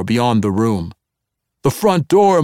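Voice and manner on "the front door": loud, high alarm call; guards yelling. A narrator's reading. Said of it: "more than one voice yelled".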